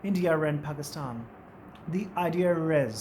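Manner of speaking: "India and Pakistan" and "idea is" said slowly with an r joining the vowels; slow and deliberate, r bridging the vowels; linking r. Shown as a demonstration. Teacher repeating the linking r model for students, slowly. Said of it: "आर sound add कर देंगे".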